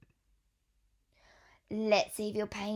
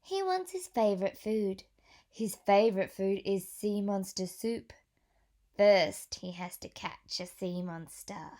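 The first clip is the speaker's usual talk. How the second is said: put-on reading to children. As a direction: clear storybook read-aloud voice. Reads picture book to children.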